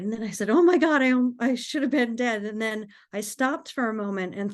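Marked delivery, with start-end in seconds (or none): 0.5-2.4 acted-out exclamation, starting loud and high; retold shock. Driver realizing she should be dead, shocked. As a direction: relive the shock, easing off after the outburst.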